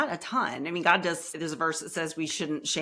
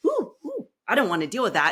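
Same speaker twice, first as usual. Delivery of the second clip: squeamish recoil; 5 semitones higher, 4 dB louder, faster than usual. Retold or imitated. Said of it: "kinda like".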